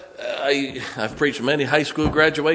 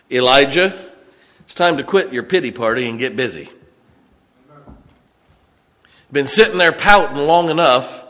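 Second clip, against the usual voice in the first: God voiced as a louder, stern father; stern God scolding; 2 semitones higher, 5 dB louder than usual. God tells sulking Elijah to get busy, stern scolding. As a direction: scold him to get up off the floor. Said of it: "let's put it down to where we really live".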